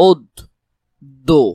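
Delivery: "ওদ দো" broken apart with a pause, "od ... do"; split syllables. Shown as a demonstration. Teacher breaking up the word to test it, "ওদ দো" as separate "od - do". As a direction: hit "ওদ" hard, wait, then "দো". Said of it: "ওদ যদি বলো ওদ".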